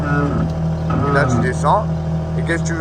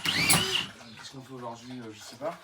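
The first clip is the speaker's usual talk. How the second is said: slow, soft grumpy mumble; 11 dB quieter than usual. Pretend. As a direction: drag it out like a grouch who won't work.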